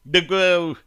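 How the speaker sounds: high, flustered stammer; stumble, caught off guard. A narrator's reading. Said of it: "смутился Сверид".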